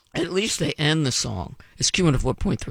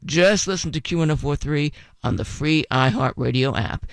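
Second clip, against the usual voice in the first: normal talking voice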